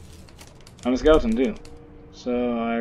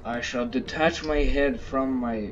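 slow, stately skeleton line; a hint of a solemn undead gentleman, slow; lightly voiced grand skeleton; slower than usual. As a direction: announce it slowly like a pompous skeleton. Skeleton's formal declaration.

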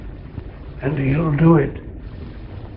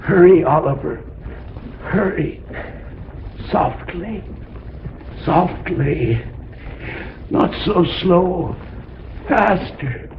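urgent; 6 semitones higher than usual. Acted. Urgent hurried escape.

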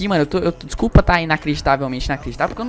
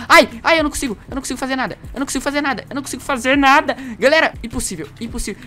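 panicked whine; 6 semitones higher than usual. Real, not acted. Panicking during the fight.

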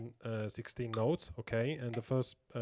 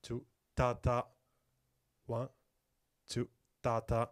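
spaced-out beat count, "ta ta" as the drum notes; rhythmic counting. Shown as a demonstration. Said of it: "so it would be like".

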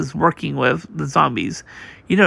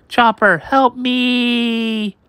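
high, frantic call for help; panicked cry for help; 6 semitones higher, much slower than usual. Acted. Chopper calls to a crewmate in panic, high frightened cry for help. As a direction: yell for your friend in terror. Grabbed by the painting.

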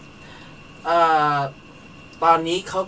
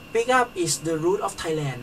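slow quoting; much slower than usual. Retold or imitated. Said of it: "เขาใช้คำได้แบบโอเคมากเลย เขาบอกว่า".

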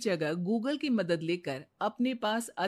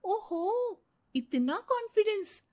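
mocking; 12 semitones higher, slower than usual. Mocking husband's confidence.

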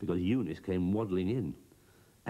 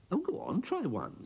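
urging Broomstick; 14 semitones higher than usual. Acted.

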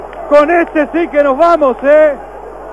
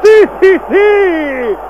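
excited cheering; 3 semitones higher, slower than usual. Real, not acted. Celebrating the goalkeeper's save.

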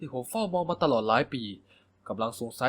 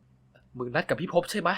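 stern; much slower than usual. Acted. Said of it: "ผมถามด้วยเสียงเข้ม".

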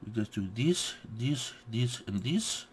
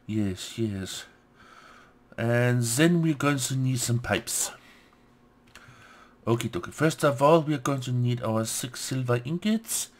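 put-on a loose, half-hearted French accent; mock French accent. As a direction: play a fake French chef, lightly. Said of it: "French impersonation".

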